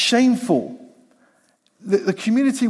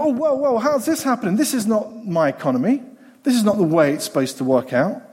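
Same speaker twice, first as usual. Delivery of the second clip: mock shock; 4 semitones higher than usual. Voicing shocked self-righteous person.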